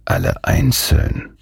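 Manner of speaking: slow, musing "Alle einzeln"; murmured. A narrator's reading. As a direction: draw out "Alle einzeln" as a dawning thought. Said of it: "murmelte er".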